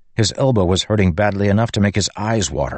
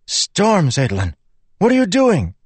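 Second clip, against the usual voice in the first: alarmed shout; 11 semitones higher than usual. Acted. Brother calls out in alarm.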